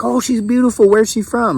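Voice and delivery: put-on high-pitched, admiring Filipino accent; mimicked Filipino accent. Doctor admiring photo of patient's wife, mimicked Filipino accent. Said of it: "I'm doing my best to mimic it".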